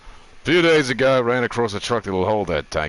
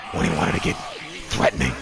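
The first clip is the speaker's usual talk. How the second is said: threatening Deacon voice; 7 semitones lower, faster than usual. Shown as a demonstration. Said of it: "And he talked like this".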